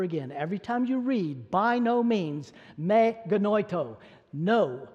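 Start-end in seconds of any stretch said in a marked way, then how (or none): 1.5-4.9 "By no means" slowed, with weight on NO; firm, measured refusal landing on a final "no"; emphatic no. Retold or imitated. Preacher quoting Paul's repeated answer, emphatic no. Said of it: "It is the emphatic no".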